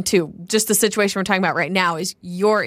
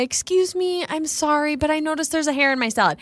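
polite complaint; 4 semitones higher than usual. Acted. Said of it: "I will say".

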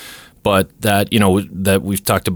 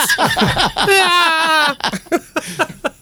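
high laugh. Real, not acted. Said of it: "Kermit the Frog thing".

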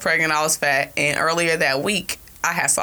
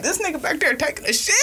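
impatient yell; 9 semitones higher, faster than usual. Retold or imitated. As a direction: yell it out fed up. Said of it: "I'm like".

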